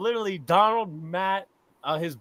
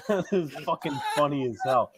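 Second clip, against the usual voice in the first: ordinary talk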